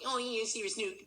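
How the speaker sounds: lightly hammed-up Australian accent mimicking a co-star; mock Australian accent. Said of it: "What's your Australian version of my accent".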